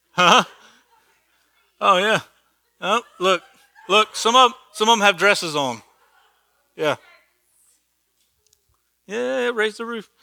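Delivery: excited. Real, not acted. Teacher delighted by pictures on his slide, excited. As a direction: burst out laughing at the picture.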